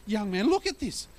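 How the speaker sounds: high, condescending grown-up voice; scoffing man. Retold or imitated. Man on the beach scoffing at the boy, high and condescending. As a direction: talk down to the boy. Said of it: "He said".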